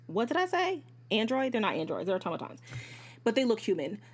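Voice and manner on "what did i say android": high, surprised question; realizing she said android; self-correction surprise. Real, not acted. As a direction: catch your own slip. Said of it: "correcting herself".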